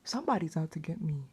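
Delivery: scared whisper. Real, not acted. Alone in her room at night, frightened whisper. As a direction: whisper it so nothing hears you.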